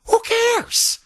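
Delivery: mocking who cares. Real, not acted. Host scoffing at the governor's bond rating, high mocking falsetto. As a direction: toss it off in a shrill mocking falsetto.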